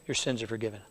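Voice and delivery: quiet tender pronouncement; tender forgiveness. Retold or imitated. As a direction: say it kindly, lifting his burden. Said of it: "Matthew says he said".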